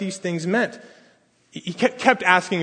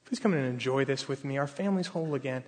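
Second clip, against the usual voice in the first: pleading; 2 semitones lower, 8 dB quieter than usual. Retold or imitated. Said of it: "his father's pleading".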